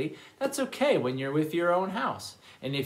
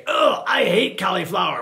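hammed-up disgusted lion complaint; mock disgust; 3 semitones higher, 8 dB louder than usual. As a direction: act out a lion loudly refusing food. Lion refusing cauliflower in story.

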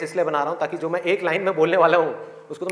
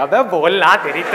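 acting out a fed-up listener's threat; mock exasperated outburst; 4 semitones lower, 5 dB louder than usual. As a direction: burst out in mock anger at the dawdling speaker. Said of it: "लोग बौखला जाएंगे". (बौखलाए श्रोता की नकली झल्लाहट)

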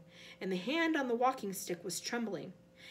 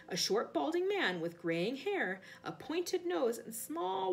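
lively storytelling with swinging pitch and firm emphasis; story narration. A narrator's reading. Reader telling Frank's frightening tale to listeners, animated story narration. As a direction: narrate with punchy, dramatic stresses. Reads a novel aloud to listeners.

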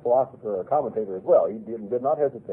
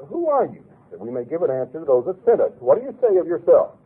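sharp, higher opening "Who", insistent; demanding priests; 3 semitones higher, 5 dB louder than usual. Acted. Priests interrogating John, insistent and demanding. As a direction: press John hard for an answer.

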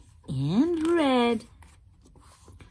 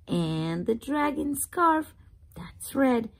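whisper; 3 semitones higher than usual. Acted. Whispered aside while reading.

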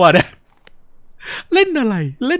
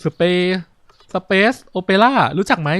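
drawn-out, halting character line; slow talking; much slower than usual. Acted. Game character asks about space opera, talking very slowly. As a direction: stretch the words out slowly. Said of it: "แล้วทำไมพูดช้าจังเลย".

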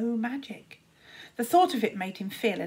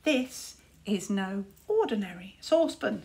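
cunning. Acted. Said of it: "said Tsar cunningly".

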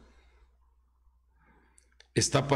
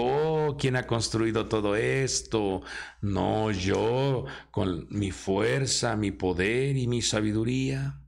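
proud king; 3 semitones lower, slower than usual. Retold or imitated. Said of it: "Nabucodonosor grandote dijo".

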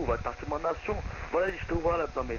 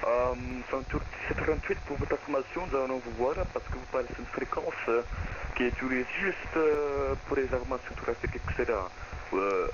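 fake Turkish accent; 3 semitones lower than usual. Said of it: "arrêtez d'utiliser des accents turcs".

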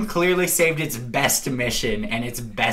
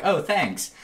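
higher-pitched little thank-you; imitated flattered reply; 6 semitones higher than usual. Townsperson thanking Arthur for a compliment, imitated flattered reply. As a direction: play the flattered stranger, voice lifted.

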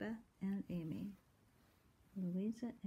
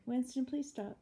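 raised, higher plea to the cat; louder, mildly exasperated aside; scolding a pet; 7 semitones higher, 5 dB louder than usual. Real, not acted. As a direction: call out a real request to stop. Calls to the scratching cat.

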